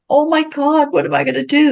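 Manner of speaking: high, panicky retold cry; young mother panicking over a baby; mock panic.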